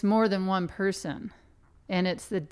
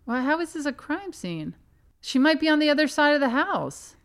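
baffled, stammering; 5 semitones higher than usual. Retold or imitated. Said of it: "I would be like".

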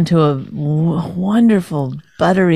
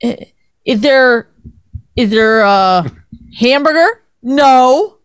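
halting question, then emphatic no; imitating picky husband; 3 semitones higher, slower than usual. Wife mimicking husband checking dinner, mocking question and curt answer. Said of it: "You go".

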